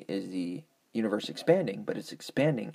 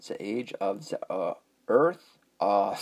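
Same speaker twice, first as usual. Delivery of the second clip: mock German accent, Earth rising. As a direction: attempt the German accent again. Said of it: "Oh, I can't do Earth".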